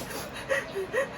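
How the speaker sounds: quick breathy gasps, high and soft; imitated hyperventilating. Traveller reliving her anxiety attack in Rome, hyperventilating. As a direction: mimic gasping through a crying fit. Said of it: "hyperventilating and crying uncontrollably".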